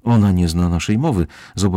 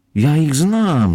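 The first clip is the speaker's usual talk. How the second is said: abrupt, sudden, high-pitched exclamation; 8 semitones higher, 4 dB louder than usual. As the men and the scouts size each other up, a scout calls out suddenly. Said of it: "zawołał nagle".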